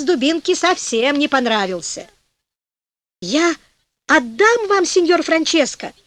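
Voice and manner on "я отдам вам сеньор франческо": high, pleading cry, moderately raised; wailing devil. A narrator's reading. Devil begging Francesco to stop the dance, wailing. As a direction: plead in a high, acted wail. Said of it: "вопил чёрт".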